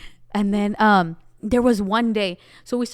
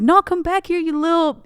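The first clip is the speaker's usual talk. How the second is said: higher, louder mock yell after someone; angry girl yelling at a rival walking away, higher mock shout; retold yelling; 7 semitones higher, 5 dB louder than usual. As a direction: shout her back down the hall. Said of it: "And she's, like, yelling".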